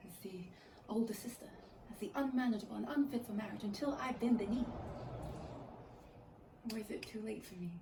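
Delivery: hushed stage monologue with long pauses; quiet, measured theatrical speech; dramatic monologue. Shown as a demonstration. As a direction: deliver it softly, as an audition piece, pausing between phrases. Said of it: "demo to you my first, uh, monologue".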